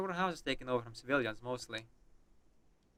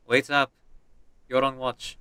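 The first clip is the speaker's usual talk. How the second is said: put-on Russian accent; 5 dB louder, slower than usual. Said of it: "we are playing as a Russian character".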